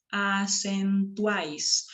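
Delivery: acentuáis very slow, syllable by syllable; triphthong demo. Shown as a demonstration. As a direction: draw out acentuáis, uáis as one beat. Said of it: "los tres se pronuncian en una misma sílaba". (acentuáis muy lento, con uáis en una sola sílaba)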